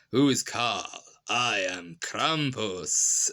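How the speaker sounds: lightly voiced hammy monster; campy Krampus. Actor in Krampus outfit revealing himself, campy. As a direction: imitate a campy villain, drawing out the name. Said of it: "does this very campy performance where he goes".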